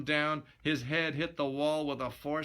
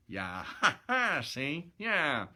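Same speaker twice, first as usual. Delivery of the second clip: laughing aside; 3 semitones higher, slower than usual. Real, not acted. Reader breaks into laughter.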